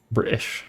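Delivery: "British" with the T left out; dropped T. Shown as a demonstration. Streamer showing how British people say it, "British" without its T. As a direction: say "British" as Bri'ish, swallowing the middle T. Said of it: "You gotta take the T out".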